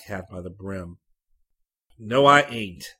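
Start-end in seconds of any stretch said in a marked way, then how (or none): 2.0-2.9 nasal Tennessee drawl, much louder; high nasal Tennessee voice. A narrator's reading. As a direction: snap it in a nasal Tennessee accent. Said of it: "high nasal Tennessee voice".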